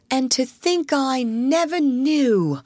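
lightly voiced, lost in a dream; dreamy monotone. A narrator's reading. Toad dreaming aloud of motoring, slow and dreamy. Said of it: "in a dreamy monotone".

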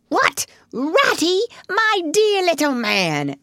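high, delighted astonishment; surprised exclamation. A narrator's reading. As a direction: exclaim fondly at an unexpected friend. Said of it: "exclaimed the Badger in quite a different voice".

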